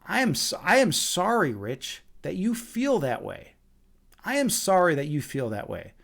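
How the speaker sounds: retold smug non-apology, toying with the listener; a little smug. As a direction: needle them with an insincere sorry. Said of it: "I was a little bit smug".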